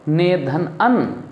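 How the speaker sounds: very slow, each part separated; slow dictation of the sandhi split; slow spelled-out split. Shown as a demonstration. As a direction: lay out ने धन अन piece by piece for the class. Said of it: "तो क्या होगा?".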